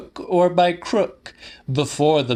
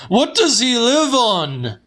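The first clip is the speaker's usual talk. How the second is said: much higher, louder shrieked question; an old man shrieking from his bed; 12 semitones higher, 4 dB louder than usual. A narrator's reading. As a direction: shriek it at her in exasperation. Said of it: "he shrieked".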